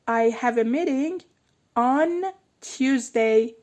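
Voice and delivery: meeting said as meeding with a d; flap t in meeting. Shown as a demonstration. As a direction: soften the t of meeting into d, slowly. (meeting با صدای د، میدینگ)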